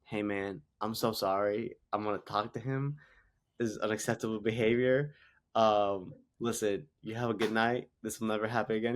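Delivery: dialed-down apology. Retold or imitated. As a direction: soothe a scared kid gently. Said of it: "really dial it down to the kid".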